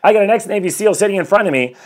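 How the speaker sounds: gleeful disbelief at sitting before a Navy SEAL; excited retelling. Shown as a demonstration. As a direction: say it again, amazed this is really happening. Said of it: "repeated with rising excitement".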